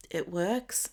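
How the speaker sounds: talking through hiccups; words broken by a hiccup. Real, not acted. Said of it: "I've got the hiccups now".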